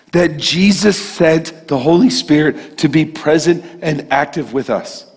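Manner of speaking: fervent preaching. Acted. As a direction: drive the hope home to the church.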